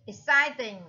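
exciting stressed on CIT; second-syllable stress. Shown as a demonstration. Teacher gives the answer, exciting stressed on the second syllable. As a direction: hit the middle syllable of exciting. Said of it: "là nhấn ở âm số hai".

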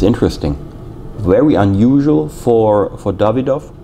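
talking around a cigar; cigar in mouth. Real, not acted. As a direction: lips closed on cigar. Seen 0: Cigar held at lips from 0.7s while speaking, removed by 9.2s.

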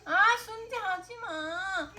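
high, slow, whiny plea; whiny pleading. Real, not acted. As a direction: whine at the dog not to beg. Whining at dog over sundae. (징징대며 애원하는)

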